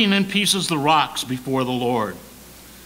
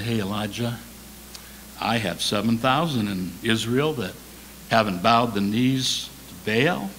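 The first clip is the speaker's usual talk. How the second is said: lowered, calm divine voice; gentle Lord; 5 semitones lower than usual. Acted. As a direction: break it to him gently. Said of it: "The Lord is gentle".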